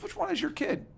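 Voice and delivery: high, puzzled question from the major. Retold or imitated. Major asks the coach, high and puzzled. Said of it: "He goes".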